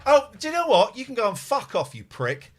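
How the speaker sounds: furious outburst. Real, not acted. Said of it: "I'm fucking furious".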